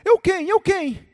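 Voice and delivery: high, loud panicked demand; acted alarmed shout; frantic questioning. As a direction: call up urgently to an unseen rescuer. Dangling man answers the voice.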